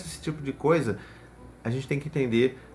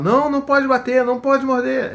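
much higher, louder scolding no; harsh no; 11 semitones higher, 7 dB louder than usual. Retold or imitated. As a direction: shout the rule at the child. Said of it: "ao invés de a gente falar". (bronca alta e aguda)

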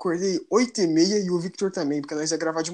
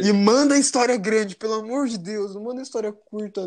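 pleading; 5 semitones higher, 4 dB louder than usual. Real, not acted. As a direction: beg the listeners loudly. Begging listeners.

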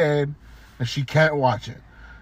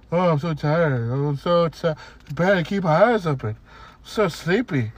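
mocking whiny customer. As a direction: drag it out like a lightly mocked tired customer. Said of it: "she told me that".

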